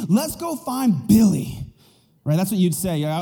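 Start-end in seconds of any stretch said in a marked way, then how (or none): 0.1-1.6 slow, high-pitched mock outrage; mad parent. Parent off to confront the bully, acted outrage. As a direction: announce it as a fired-up parent, stretched out. Angry parent voiced in scenario.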